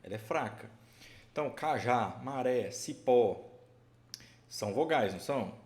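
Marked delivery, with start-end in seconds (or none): 1.5-3.4 cajá, maré, cipó slowly, each last syllable drawn out and loud; stress on final syllables. Shown as a demonstration. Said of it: "terminada aqui em sílaba tônica". (cajá, maré, cipó com ênfase forte na última sílaba)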